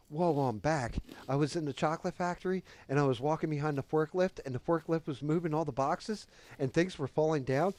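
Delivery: loud, high, racing excited account; giddy high friend. Retold or imitated. Friend back from nitrous recounting his trip, giddy. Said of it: "He starts giggling like that".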